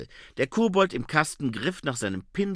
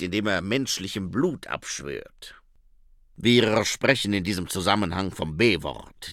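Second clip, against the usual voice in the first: put-on low, accented vampire voice; Otto Schreck; 3 semitones lower, 4 dB louder than usual. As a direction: earnestly assure them as a vampire. (Vampirstimme mit Akzent, beteuernd)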